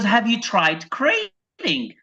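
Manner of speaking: slow, deliberate trainer question; a lightly voiced patient dog trainer; drawn-out calm suggestion. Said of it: "She goes".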